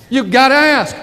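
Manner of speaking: "ask" hit and held; stress on ask. Shown as a demonstration. Coach repeating rule one to the crowd, "ask" stressed. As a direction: lean into "ask" to make it stick. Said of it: "rule number one".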